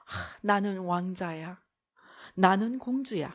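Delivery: mock a person drunk on themself; smug self-admirer. Mimics the self-pitying prince. (스스로에 취한 왕자 흉내)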